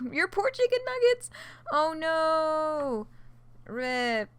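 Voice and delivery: high, loud oh no; mock dismay. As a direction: squeal over the ruined nuggets. Mock dismay at burnt nuggets.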